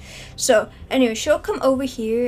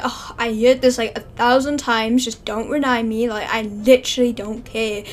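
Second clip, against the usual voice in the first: loud dismissive scolding; 7 dB louder than usual. Pretend. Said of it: "he'd be like".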